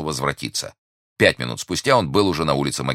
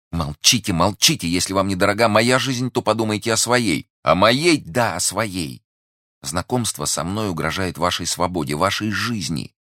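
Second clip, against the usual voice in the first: higher, urgent plea; alarmed warning; 6 semitones higher than usual. Acted. Young woman warning that his life is threatened, alarmed. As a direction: warn him urgently, pitch lifted. Woman begs silence, warns danger.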